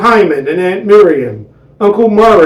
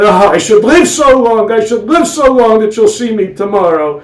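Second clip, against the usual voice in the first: kvetching wife; 4 semitones higher than usual. Acted. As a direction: sigh out doom.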